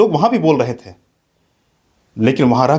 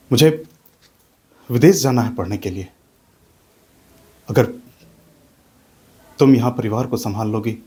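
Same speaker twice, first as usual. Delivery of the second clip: put-on earnest young husband. Young scholar asks his wife Rama to let him study abroad, earnest and resolved. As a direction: calmly persuade your wife to let you go.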